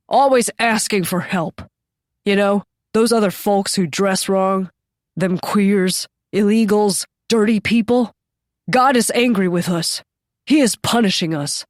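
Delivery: lightly voiced preachy bigot; a hint of a scornful ranting man; bigoted old man. Bigoted man ranting about sinners.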